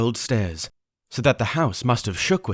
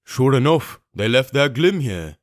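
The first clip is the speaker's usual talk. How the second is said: rough pirate call; 2 semitones higher than usual. Acted. Window pirate reports the lamp, rough. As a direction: call down what you found. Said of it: "said the fellow from the window".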